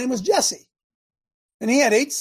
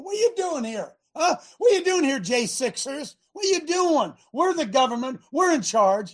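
a hint of a mocking giant, pitched up; taunting giant; 5 semitones higher than usual. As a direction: sneer at the little people as the bully. Preacher voices Goliath taunting Israel.

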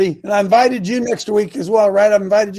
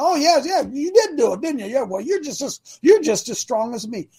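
mock patronizing; 6 semitones higher than usual.

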